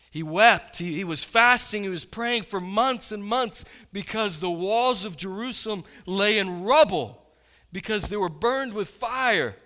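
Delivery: loud, high preaching on Nehemiah; impassioned preaching. Real, not acted. Pastor tells of Nehemiah's weeping, preaching loud. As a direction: build the fervour of his grief.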